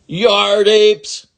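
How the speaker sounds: high, loud furious yell with a long apes; angry yell. Acted. Ramona yells at the boys, high and furious. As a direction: scream the insult at the boys. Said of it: "yelled Ramona".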